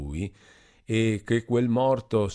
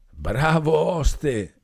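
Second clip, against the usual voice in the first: put-on higher, slow and slurred, a tipsy young man; 8 semitones higher, 7 dB louder, much slower than usual. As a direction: drag it out like a happy drunk. Drunk Renzo praising innkeeper.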